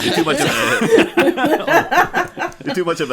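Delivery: words squeezed out through laughter; trying to talk while cracking up; laughing. Real, not acted. Laughing at own joke.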